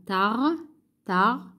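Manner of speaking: "Tar" broken off from tarte, R clearly sounded; audible R. Shown as a demonstration. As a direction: isolate "tar" to show the R. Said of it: "On entend le R". (« tar » isolé, R bien audible)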